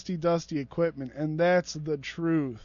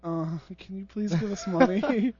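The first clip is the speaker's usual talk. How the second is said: timid asking. Retold or imitated. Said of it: "less aggressive approach".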